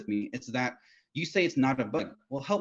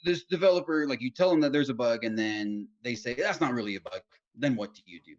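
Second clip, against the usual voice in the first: interviewer voice. Retold or imitated. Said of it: "This is my voice for them".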